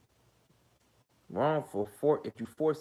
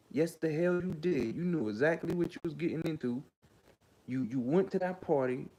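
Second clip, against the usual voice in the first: heated scolding; 5 semitones higher than usual. Real, not acted. Scolding the accusers directly.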